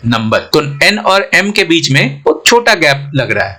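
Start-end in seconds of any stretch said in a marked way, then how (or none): 0.1-0.4 नंबर with a tiny अ between न and म; short-vowel number. Shown as a demonstration. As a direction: say नंबर, the vowel barely there. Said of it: "बहुत छोटा sound आ रहा है अ का".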